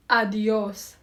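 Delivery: "Adios" with the weight after the opening A; stress on second syllable. Shown as a demonstration. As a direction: model "Adios" clearly, a-di-OS, leaning on the end. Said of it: "stress is on the second syllable".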